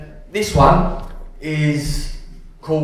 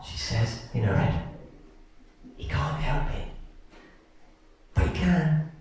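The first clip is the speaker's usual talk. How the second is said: dramatic poem reading; faster than usual. Acted. Woman watching a film beside a fidgeting partner, exasperated poem reading. Performs poem of irritated couple.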